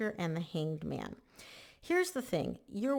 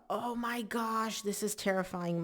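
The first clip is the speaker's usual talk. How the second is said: slow, higher mock panic over a scary moment; mock terrified; 3 semitones higher, slower than usual. Reader voicing Libra's terrified moment, lightly mock-scared. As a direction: draw out the oh my gosh like a half-playful fright. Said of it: "like, a, ... moment".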